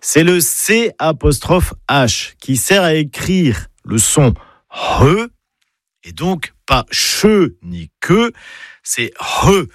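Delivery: slow, careful demo of the breathy "re"; aspirated Breton sound. Shown as a demonstration. Breton teacher showing listeners the C apostrophe H, aspirated sound demo. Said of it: "que vous ne prononcez pas bien".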